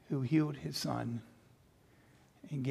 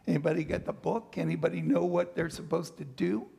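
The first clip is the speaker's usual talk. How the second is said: flustered disciple; faster than usual. Pretend.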